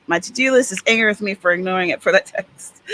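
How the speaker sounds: talking through a yawn; "My to-do list" half-yawned out. Real, not acted. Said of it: "Excuse my yawning".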